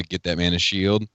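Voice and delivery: lightly voiced Black Panther; Black Panther impression. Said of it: "the impression of Black Panther".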